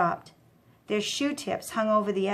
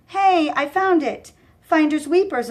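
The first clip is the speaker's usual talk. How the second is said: higher, louder dumb goon; childish claim; 7 semitones higher, 6 dB louder than usual. A narrator's reading. Dumb goon claiming the pen from Mikey, higher and louder. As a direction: defend your prize like a kid.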